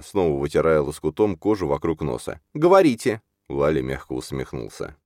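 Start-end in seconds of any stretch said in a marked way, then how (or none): 2.5-3.2 high, louder demand; pitched-up, pressing command; indignant. A narrator's reading. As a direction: insist in a high heroine voice. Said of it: "возмутилась Альжана".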